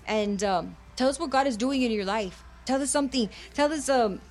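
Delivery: earnest bilingual preaching, rhythmic and insistent; fervent radio sermon delivery. Acted. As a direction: preach it to the listeners with conviction.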